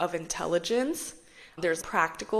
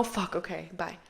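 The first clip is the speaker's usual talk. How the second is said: deflated mutter; 6 dB quieter than usual. Retold or imitated. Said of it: "Two totally different approaches".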